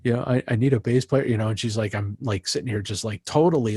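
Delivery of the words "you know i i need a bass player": put-on a flustered young singer asking a favour; nervous caller. Singer phoning Mister Leonardi for a gig, nervous. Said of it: "all nervous".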